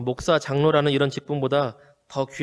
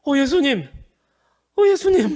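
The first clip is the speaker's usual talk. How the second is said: much higher and louder cry of 예수님 in sudden joy; overjoyed recognition; 10 semitones higher, 4 dB louder than usual. Retold or imitated. Mary at the tomb recognizing the risen Jesus, crying out in joy. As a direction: burst out as if seeing him alive again. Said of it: "감격을 해서".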